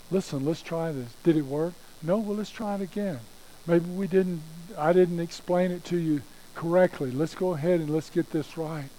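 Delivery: sensitive counselor. Acted. God helps you try again, soft and patient. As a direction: coax gently, as if starting over together. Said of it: "He is a sensitive counselor".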